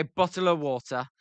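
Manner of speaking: Upper Peninsula accent, "Bottle of water" run together quickly. Shown as a demonstration.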